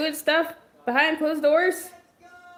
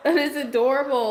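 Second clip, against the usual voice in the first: laughing fondly; 2 semitones higher, faster than usual. Real, not acted. Laughing while gushing.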